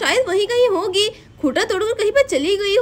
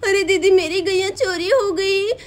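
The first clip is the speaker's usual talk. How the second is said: tearful. Acted. Radha reveals cow stolen.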